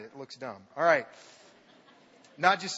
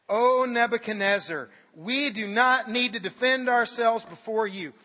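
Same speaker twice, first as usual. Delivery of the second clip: bold declaration; 4 semitones higher, 6 dB louder than usual. Acted. Three men answer the king.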